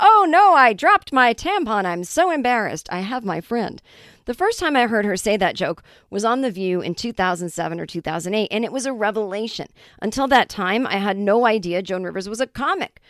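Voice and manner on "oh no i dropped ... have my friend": loud, swooping, show-off announcement. Quoting a comic's joke told at a party; loud voice. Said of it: "say in a loud voice".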